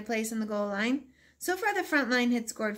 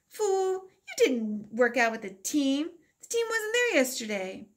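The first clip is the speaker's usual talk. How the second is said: scornful put-down; 4 semitones higher than usual. Acted. Victor scornfully corrects narrator.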